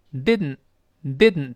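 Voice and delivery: "didn't" as did-n, tongue held on the d; "didn't" with no vowel before the n; nasal plosion. Shown as a demonstration. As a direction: stick the d and release "didn't" through the nose. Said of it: "舌尖顶住".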